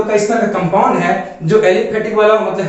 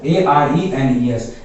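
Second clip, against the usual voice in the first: spelled out slowly; 6 semitones lower, slower than usual. Shown as a demonstration. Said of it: "क्या हो जाएगा?".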